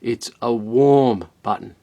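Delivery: "warm" drawn out and hit slowly; stress on warm. Real, not acted. Correcting viewers on heat, "warm" emphasized. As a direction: press the word "warm", slow. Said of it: "So just let me clarify that".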